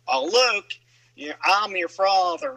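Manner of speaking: southern accent. Shown as a demonstration. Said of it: "or even a southern accent".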